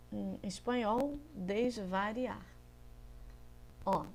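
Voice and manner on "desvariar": desvariar stretched very slowly to show the moved letter; drawn out slowly. Shown as a demonstration. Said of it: "Mudei o I do lugar". (desvariar pronunciado bem devagar)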